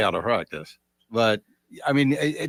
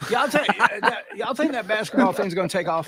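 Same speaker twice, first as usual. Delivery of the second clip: put-on skeptical old-timer; 7 semitones higher than usual. Old-timer scoffing at basketball.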